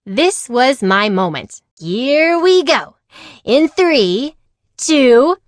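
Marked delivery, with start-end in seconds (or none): 1.8-5.4 high, slow thrilled countdown; excited countdown. Acted. Amelia counts down on the coaster, high and thrilled. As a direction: build the thrill before the drop.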